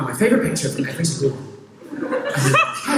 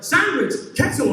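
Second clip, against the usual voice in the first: panicking brain voice; 11 semitones higher than usual. Retold or imitated. Stoned brain offers useless ideas in panic.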